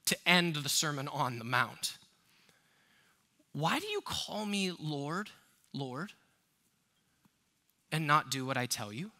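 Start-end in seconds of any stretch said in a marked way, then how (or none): 3.5-9.1 quoting Jesus. Acted. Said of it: "Verse forty-six".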